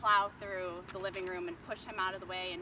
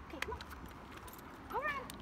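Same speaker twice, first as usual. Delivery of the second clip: high, coaxing call to a dog; high-pitched dog call; 4 dB quieter, much faster than usual. Real, not acted. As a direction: coax the dog over, voice way up.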